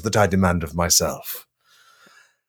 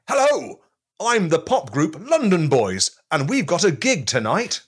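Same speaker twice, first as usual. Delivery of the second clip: reenacting pop star; 7 semitones higher than usual. Host reenacts a pop group meeting Chris, high voice. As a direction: play the pop group introducing themselves, high. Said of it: "a reenactment of the scene".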